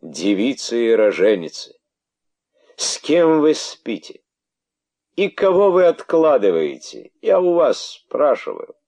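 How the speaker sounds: very high, loud accusation; king shrieking at his subjects; accusing interrogation. Acted. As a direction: demand answers.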